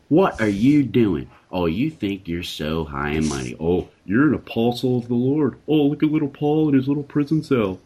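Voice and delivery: lightly voiced mocking accuser; enemy's voice. Enemy taunting Paul in prison, mild sneering voice. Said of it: "the enemy's voice".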